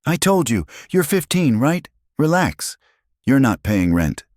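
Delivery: high, sneering put-down; mocking boss. A narrator's reading. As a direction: belittle him, mockingly. Boss belittles teen worker.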